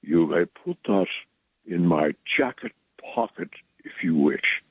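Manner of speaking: lightly imitated patrician Boston accent; a hint of upper-class Boston accent. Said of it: "in his patrician Boston accent".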